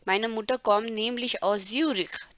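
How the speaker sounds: very slow, word by word; slow model reading. Shown as a demonstration. Teacher rereading the Zürich sentence slowly for students. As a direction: lay out each German word slowly. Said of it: "repeated model sentence".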